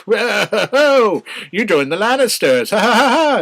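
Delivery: high, loud, teasing put-on girl voice with a mock laugh; high squeaky mock taunt ending in fake laughter; mocking Arya. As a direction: tease him like a bratty kid. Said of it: "she's all like".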